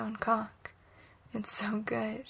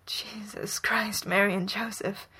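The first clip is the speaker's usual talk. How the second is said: praying. A narrator's reading. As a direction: whisper it like a desperate prayer. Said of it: "Bucky prays".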